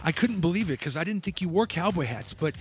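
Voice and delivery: lightly voiced proud aunt; doting aunt. Aunt telling her nephew how hard the hat was to find, earnest. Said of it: "she's like".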